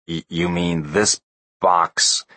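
slow breathless whisper; stunned stammering whisper; awed whisper. Acted. Spiro stunned by the device.

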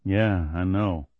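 heartfelt. A narrator's reading. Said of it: "as heartfelt as Kelly's".

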